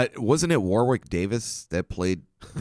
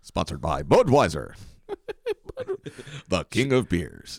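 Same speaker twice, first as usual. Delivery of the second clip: announcer. Acted. Tagging the bit with a beer sponsor, announcer voice. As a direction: deliver it like an ad voice-over.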